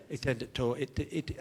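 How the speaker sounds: halting speech defect, t in place of other consonants; comic impeded speech; Harry. Acted. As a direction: stumble along with fronted consonants. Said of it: "a slight speech defect".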